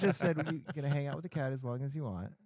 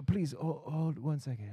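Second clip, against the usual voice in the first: put-on lightly accented phone plea; Asian accent; 3 semitones higher than usual. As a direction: ask with a hint of an Asian accent. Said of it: "I'm doing an Asian accent".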